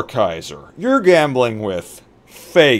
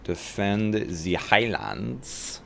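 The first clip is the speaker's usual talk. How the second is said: very slow and much softer, dragged-out trailer line; mock epic trailer voice; 3 semitones lower, 9 dB quieter, much slower than usual. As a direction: savour each word like a movie trailer.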